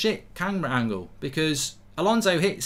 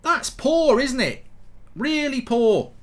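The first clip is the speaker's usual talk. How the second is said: mock disgust; 8 semitones higher, slower than usual.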